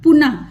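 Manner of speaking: पुनः said loudly, ending on a breathy ह, then पु alone; visarga demo. Shown as a demonstration. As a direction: break पुनः apart, with a clear ह at the end. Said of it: "आह का sound आ रहा है ना". (पुनः ज़ोर से, अंत में ह की आवाज़)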